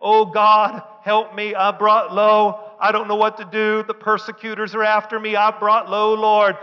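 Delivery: insistent mock lament to God; complaining. David complaining to God in the cave, pleading. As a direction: plead in one long, even complaint. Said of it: "he's complaining".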